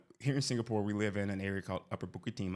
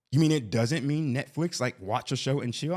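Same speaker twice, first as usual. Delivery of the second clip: louder, incredulous retold question; mock disbelief; 3 semitones higher, 6 dB louder than usual. Wife questioning what Netflix and chill means, mock disbelief. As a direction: imitate a wife pushing back in disbelief.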